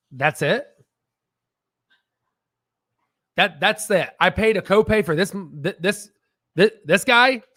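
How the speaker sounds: stammering disbelief, rising at the end; incredulous patient. Acted. Patient after a very short doctor visit, incredulous. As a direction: stumble over the words as a short-changed patient. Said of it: "And you're like".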